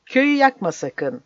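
high, urgent warning; crying out. A narrator's reading. Villagers beg the priest to spare the village, crying out. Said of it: "diye haykırdılar".

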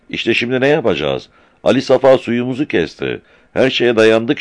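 high-pitched, distressed excitement; agitated. A narrator's reading. Seyran tells the men their water is cut, agitated. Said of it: "heyecan içinde".

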